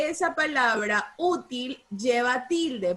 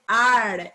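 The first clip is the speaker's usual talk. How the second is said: "Ar" punched out loud; stressed syllable demo; 3 semitones lower, 6 dB louder than usual. Shown as a demonstration. Teacher naming the accented syllable, firm and emphatic. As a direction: say "Ar" firmly as a single strong syllable. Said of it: "en la sílaba ar".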